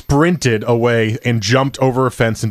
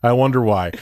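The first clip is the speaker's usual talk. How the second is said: mocking sarcasm; 3 semitones higher than usual. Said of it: "And I was like".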